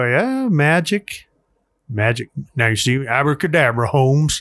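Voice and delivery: put-on kids party magician. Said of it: "With Magic Matt".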